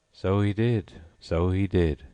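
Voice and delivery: mournful sigh. A narrator's reading. Gryphon remembering his teacher with a sigh. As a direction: sigh it wistfully. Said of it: "sighing in his turn".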